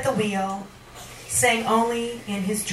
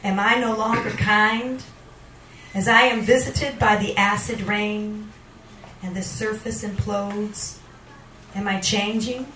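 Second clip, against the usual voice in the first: spoken word, rising to a questioning close; poetry reading. Acted. Poet answering the jester, brooding spoken word. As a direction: weigh every line like a verdict. Second poet performs poem.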